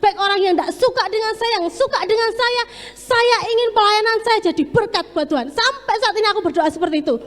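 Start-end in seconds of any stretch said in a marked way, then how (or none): 0.0-5.5 tearful prayer. Retold or imitated. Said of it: "ketika saya menangis".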